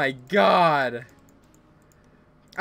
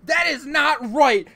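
mock angry shout; 8 semitones higher, 5 dB louder, slower than usual. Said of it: "why are you not yelling about Kirby".

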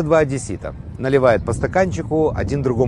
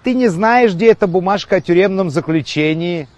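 calling out; 5 semitones higher than usual. Acted. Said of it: "и кричит".

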